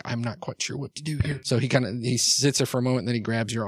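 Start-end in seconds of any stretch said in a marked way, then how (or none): 0.0-1.4 softer, mildly unsure; tentative. Acted. Big man unsure how to take an offered arm, tentative. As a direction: admit it gingerly, a touch hesitant. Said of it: "very tentatively too".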